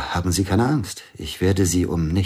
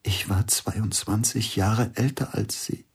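whisper; 5 dB quieter, slower than usual. Acted. Intimate whispered confession scene.

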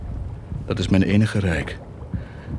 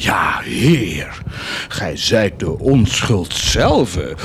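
sarcastic homage; much slower than usual. Acted. Sarcastic address to God.

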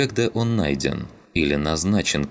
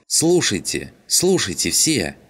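raised voice, pitched up to grab everyone; calling out; 5 semitones higher than usual. A narrator's reading. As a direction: call the room to attention. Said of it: "вскочила".

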